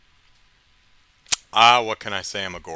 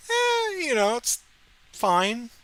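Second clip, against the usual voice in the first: unimpressed shrug; slower than usual. Retold or imitated. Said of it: "I was like".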